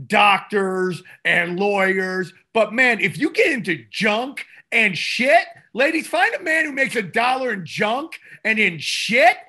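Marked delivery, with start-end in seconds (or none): 5.7-9.4 shouted and raised high, hammed up; mock shout to the ladies. Podcast host hollering advice to the ladies, mock shout. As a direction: holler it at the women like a street preacher. Calling out to women listeners.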